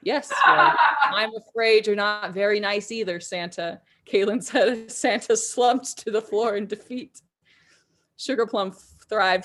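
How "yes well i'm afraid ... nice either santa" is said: laughing retort. Acted. Kaylin's triumphant retort.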